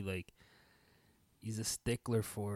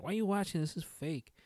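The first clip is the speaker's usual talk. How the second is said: retold scoffing uncle; 8 semitones higher than usual.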